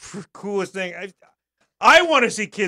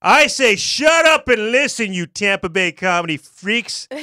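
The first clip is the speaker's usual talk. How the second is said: mock rant; 3 dB louder than usual. Reading a rant aloud.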